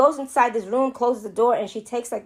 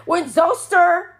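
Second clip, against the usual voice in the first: higher, slow, drawn-out movie-trailer telling; slow dramatic recap; 6 semitones higher, slower than usual. Retold or imitated. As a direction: drag it out like a spooky narrator. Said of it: "that's what he said".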